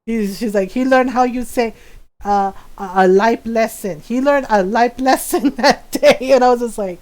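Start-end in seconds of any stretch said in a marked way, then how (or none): 0.7-6.3 put-on accented Filipino mom telling off her son; imitating scolding mom. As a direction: mimic a mother's stern, deliberate threat. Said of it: "do my voice really well".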